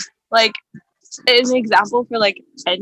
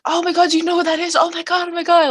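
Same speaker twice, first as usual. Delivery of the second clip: high, rushed imitation of an excited moviegoer; quick, high mock gushing; mock excitement; 6 semitones higher, 3 dB louder, faster than usual. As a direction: mimic someone gushing, pitched up and louder. Mimicking excited talker in theater.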